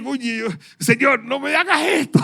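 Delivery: half-joking prayer begging the Lord to spare his shoes; pleading with God. Retold or imitated. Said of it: "Y yo dije".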